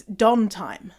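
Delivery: "dawn" said like don; Canadian dawn. Acted. Mimicking Canadians talking about morning, don-sounding "dawn". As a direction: open short vowel in dawn. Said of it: "Canadians say Don".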